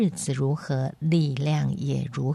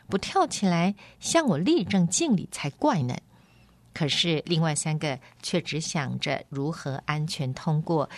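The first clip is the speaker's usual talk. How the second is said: lively storybook reading with wide pitch swings; animated audiobook narrator; story narration; 3 semitones higher than usual. A narrator's reading. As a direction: read the tale expressively, voicing its characters. Reads a novel chapter aloud.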